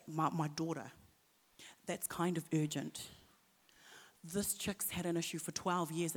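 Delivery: anxious father. Retold or imitated. Jairus nervously urging Jesus toward his dying daughter, halting. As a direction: stammer out an urgent plea. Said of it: "like, uh".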